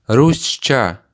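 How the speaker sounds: Русча said slowly and clearly as a model; Русча, each sound crisp and even; model Tatar word. Shown as a demonstration. Teacher models Русча for the learner, clear and careful. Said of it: "Listen and repeat".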